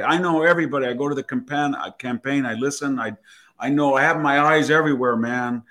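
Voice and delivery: touch of mock Valley Girl; Valley Girl accent. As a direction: retell it as a boastful Valley Girl. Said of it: "got into a Valley Girl accent".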